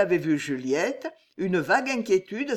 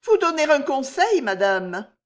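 nervous informant; 8 semitones higher, 6 dB louder than usual. Acted. Juliette, frightened maid.

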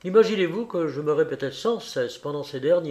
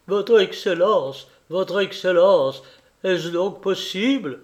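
dismayed plea; 3 semitones higher, 4 dB louder than usual. Acted. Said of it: "son visage exprimait l'effroi".

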